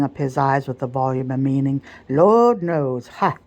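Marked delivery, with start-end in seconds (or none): 2.1-3.4 ludicrous apprehension. Acted. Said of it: "catching his breath with a ludicrous flourish of apprehension".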